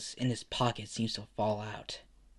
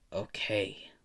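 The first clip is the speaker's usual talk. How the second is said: low, soft, reluctant agreement; weary and quiet, dropped in pitch; resigned sigh; 4 semitones lower, 6 dB quieter, much slower than usual. A narrator's reading. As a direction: give in with a sigh. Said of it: "the old man sighs and says".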